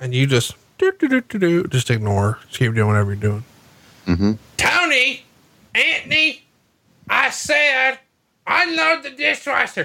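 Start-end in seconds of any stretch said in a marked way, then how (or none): 4.6-9.8 mock yell, pitched much higher, slower. Acting out a woman telling tony to unload the dishwasher, imitating her yelling. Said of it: "like if she was to yell".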